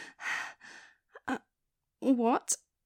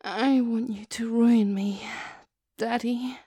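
eager begging; 5 dB louder than usual. Acted. Begging her partner.

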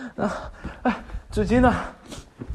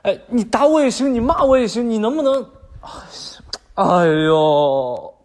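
desperate pleading; 3 semitones higher, 5 dB louder than usual. Acted. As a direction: beg her, flustered and loud. Desperate boyfriend begs crying girlfriend.

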